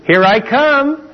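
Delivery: high, drawn-out taunt; mock a lineman bearing down; charging player. Coach recalls charging the weak tackle, taunting. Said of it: "you just go".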